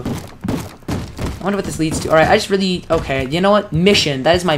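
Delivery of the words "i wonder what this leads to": whisper. Real, not acted. Exploring a tunnel, musing aloud.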